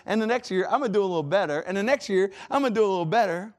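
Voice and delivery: lightly voiced hopeful chugging, rising; a hint of the little engine. Preacher voicing the little Christian who thought he could. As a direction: chant it like the little engine climbing.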